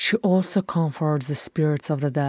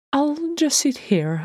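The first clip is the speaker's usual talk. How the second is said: mild mutter; 11 semitones higher than usual. Acted. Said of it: "Bilbo muttered".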